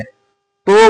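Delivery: "तो" with an o vowel, toh; mistaken तो. Shown as a demonstration. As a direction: say "तो" as a long o. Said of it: "लेकिन इसका सही मखरज क्या है". ("तो", ओ के साथ)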